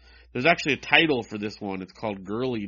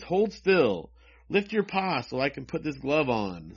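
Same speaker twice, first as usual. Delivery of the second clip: lightly voiced girl, pitched up; girl in comic; 2 semitones higher than usual. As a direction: read the girl's line with a lifted pitch.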